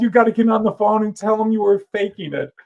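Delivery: high, loud angry scolding; furious boss. Retold or imitated. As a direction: tear into them, furious. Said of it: "he was furious".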